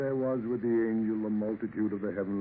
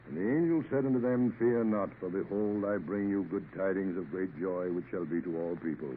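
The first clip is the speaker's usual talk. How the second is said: a captain reads Luke to himself; reading scripture aloud. Acted. Sea captain reading scripture aloud, solemn. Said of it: "reading aloud to himself".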